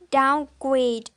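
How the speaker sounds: "downgrade" with main weight on GRADE; stress on second word. Shown as a demonstration. Student showing verb compound, "downgrade" stressed on GRADE. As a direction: lighter down, stronger GRADE in "downgrade". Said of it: "the primary stress is on the second".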